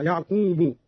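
"يعقوب" as ya'qoobu; damma on the ba. Shown as a demonstration. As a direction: end "يعقوب" on a u vowel. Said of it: "برفع الباء هكذا". ("يعقوب" برفع الباء)

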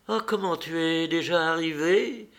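Dolly cries out, caught off guard; surprised cry. A narrator's reading. Dolly startled as Anna walks in, surprised cry. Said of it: "s'écria-t-elle".

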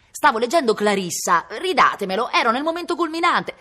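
molto più alto e forte, supplica disperata; implorazione concitata. Acted. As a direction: strilla come un lettore a cui strappano il libro. Brigand begs for his book. (voce acuta e forte di brigante disperato)

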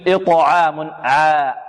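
slow "إطعام" with a thin, open long a after ayn; light alif. Shown as a demonstration. Teacher gives the contrasting example, "إطعام" with light alif. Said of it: "ترقق".

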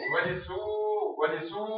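teacher's repeated demo with a stretched سو; lengthened ū. Shown as a demonstration. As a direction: hold the ū of سو long. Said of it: "شو يولي يصيح؟".

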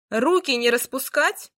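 loud stern command. A narrator's reading. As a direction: bark the order. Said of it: "скомандовала она".

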